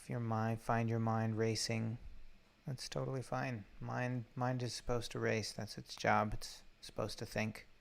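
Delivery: calm meditation guide, long unhurried pauses; guided meditation. Real, not acted. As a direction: gently guide listeners into the breath, leaving space between phrases.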